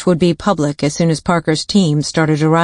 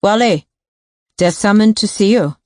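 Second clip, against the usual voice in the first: yelled; 4 semitones higher than usual. Acted. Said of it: "she turned her head and yelled".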